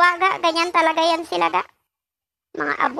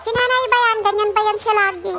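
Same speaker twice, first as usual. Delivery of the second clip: imitated viewer question; 5 semitones higher than usual. Voicing a viewer again.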